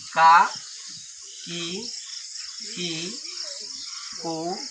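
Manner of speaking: ka, ki, kee spaced out one by one; spaced recitation of the barakhadi; reciting syllables. Shown as a demonstration. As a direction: recite the syllable chart slowly. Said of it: "ककहारा कैसे लिखा जाता है देख लीजिए".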